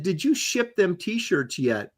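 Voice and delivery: slow Southern drawl; Southern accent. Retold or imitated. Host reading a British viewer's question, Southern accent. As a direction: read it with a folksy Southern accent. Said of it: "talking like Katie did".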